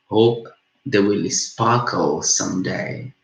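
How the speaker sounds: measured reading of a love poem, phrase by phrase; poem recitation. Acted. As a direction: recite it as verse, leaning into each stanza's opening.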